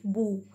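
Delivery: "boo" as a separate syllable with long oo; sounded-out syllable. Shown as a demonstration. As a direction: sound out "boo" on its own for the learners. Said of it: "the sound will be like".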